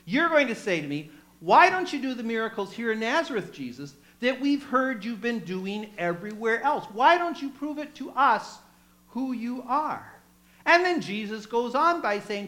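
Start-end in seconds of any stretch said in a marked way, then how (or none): 0.1-10.1 louder, demanding taunt; mocking challenge. Townspeople demanding miracles from Jesus, taunting. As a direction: put them on the spot, demanding. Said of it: "Jesus says".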